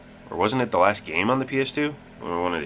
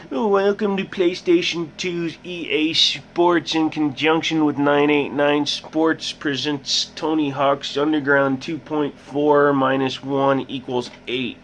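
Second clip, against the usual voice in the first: much higher, slow over-the-top title read; mock announcer; 7 semitones higher, slower than usual. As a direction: announce a ridiculously long game title. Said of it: "Let's just make a more convoluted title".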